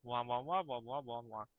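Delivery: mocking blah-blah drone; mock his endless chatter; wah wah adult talk. Mocks the NPC's chatter.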